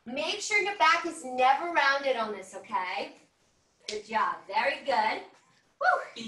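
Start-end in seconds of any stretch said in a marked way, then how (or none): 5.8-6.2 cheering woo. Real, not acted. Instructor cheering class mid-workout.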